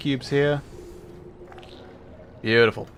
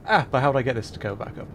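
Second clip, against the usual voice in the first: mock puzzle solver thinking aloud. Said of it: "this is another example of".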